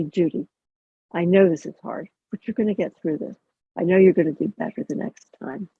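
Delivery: gentle and encouraging toward yourself; kind self-talk. Shown as a demonstration. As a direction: soften it like talking to a friend. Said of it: "in a kind tone of voice".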